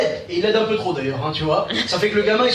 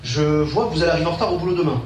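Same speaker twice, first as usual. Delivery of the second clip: astrologue; 5 semitones lower than usual. Acted. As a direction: intone it like a seer at a crystal ball. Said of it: "commencé à regarder dans sa boule". (voix grave de voyant)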